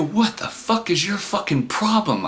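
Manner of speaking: high-pitched acted outrage; incredulous protest. Man confronting date in car, high incredulous protest. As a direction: pitch soars in disbelief, volume held back.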